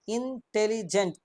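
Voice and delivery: ইন্টেলিজেন্ট drawn out slowly, syllable by syllable; slow syllable count. Shown as a demonstration. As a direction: stretch out ইন্টেলিজেন্ট so each of its three syllables is heard. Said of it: "তিনটে দেখো কি রয়েছে, syllable রয়েছে".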